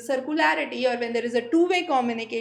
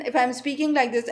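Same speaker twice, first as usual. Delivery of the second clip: voice modulation demo, first take. Shown as a demonstration. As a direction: demonstrate a restrained speaking voice. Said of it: "there is a change in the voice".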